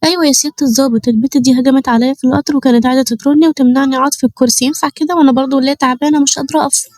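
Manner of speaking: put-on pitiful old lady; feigned innocence. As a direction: play the helpless victim to the officer. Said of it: "ببراءة شديدة".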